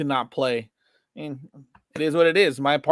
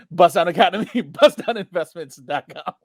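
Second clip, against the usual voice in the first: ad tagline; 4 dB louder than usual. Acted. Ad tagline repeat, laughing.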